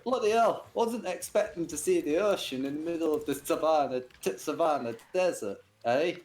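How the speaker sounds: high, amazed English warthog; surprised warthog Len. Acted. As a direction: gasp at the ocean in a hammy English voice. Warthog sees the ocean.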